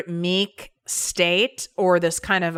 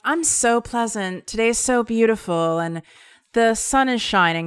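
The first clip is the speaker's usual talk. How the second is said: sing-song fake cheer; 4 semitones higher than usual.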